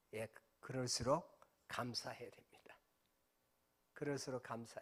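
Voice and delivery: hushed, earnest, insistent soft whisper.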